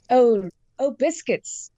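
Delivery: imitating a son's Australian cartoon accent; Bluey accent. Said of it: "Bluey sort of accent".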